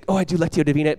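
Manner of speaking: hammed-up show-off mimicry; playful imitation of someone putting on airs; mock pretentious. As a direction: say it as if showing off, tongue in cheek. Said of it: "Don't say it like that".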